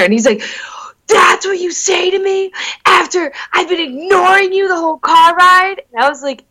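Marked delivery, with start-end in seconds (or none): 1.1-5.8 high, pitched-up retold outburst; mock indignant boyfriend. Boyfriend snapping at her after the car ride, mock indignant. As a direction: act out his wounded, indignant complaint.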